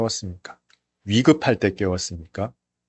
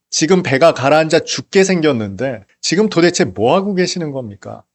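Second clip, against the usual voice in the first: a mild mock outburst at the sleeping master; frightened disciples' anger; 5 semitones higher than usual. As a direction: voice the panicked disciples' reproach, lightly acted. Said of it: "아마 그들은 화가 났을 거예요". (겁에 질린 제자들의 가벼운 화난 외침)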